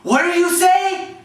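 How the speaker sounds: high, drawn-out incredulous question; shocked disgust. Retold or imitated. Player confronts teammate over a taunt, shocked and disgusted. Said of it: "he's like all shocked. He said, he was disgusted with me".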